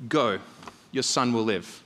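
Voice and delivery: low, calm assurance; changed, softened tone. Acted. Jesus sending the pleading father home, calm and low. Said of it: "Jesus' tune seems to change".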